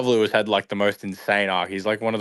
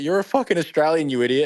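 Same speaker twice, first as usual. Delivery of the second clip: mock angry retort; 6 semitones higher than usual. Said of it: "all these people are like".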